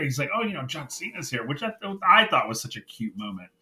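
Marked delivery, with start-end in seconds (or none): 0.3-1.5 hushed, higher, quick imitation of a starstruck fan; mock starstruck aside; fangirling almost. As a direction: imitate someone trying to contain fan excitement. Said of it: "fangirling almost".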